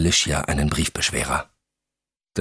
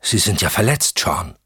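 alarmed exclamation; 3 semitones higher than usual. Acted. Alicia sees the wound on Sean's leg, exclaiming. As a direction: exclaim it on noticing the injury. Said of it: "rief sie".

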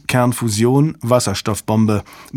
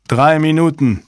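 higher, mildly urgent call; 5 semitones higher, 3 dB louder than usual. A narrator's reading. Technician warns the team of time, calling out. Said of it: "rief ein Techniker".

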